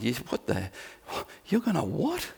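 a prophet who can't believe his ears; incredulous. Retold or imitated. Habakkuk's incredulous complaint to God.

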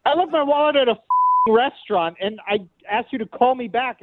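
fast, high, exasperated outburst; angry rant. Real, not acted. Frustrated caller yelling.

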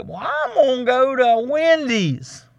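mock a customer storming off; a hint of a sulky brat; huffy customer. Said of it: "they say".

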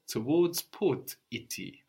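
Towards port ity, slow and broken into chunks; split into parts. Shown as a demonstration. Teacher splitting the word to show its roots. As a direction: break it up slowly to show the parts. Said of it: "That's what we're saying".

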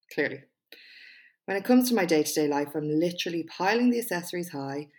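measured TED-style delivery with pauses; TED Talk voice. Pretend. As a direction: read it like a prepared TED Talk, punching key words. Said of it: "in my best TED Talk voice".

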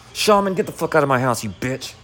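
a real flash of anger, dropping off at the end; aggressive telling-off. Real, not acted. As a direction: tell him to get out, heated. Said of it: "way too aggro and aggressive".

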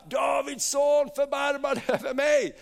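high, pleading cry as Bartimeus; calling out. Acted. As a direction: call out for mercy from afar. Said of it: "Han ropade". (ropande, hög röst)

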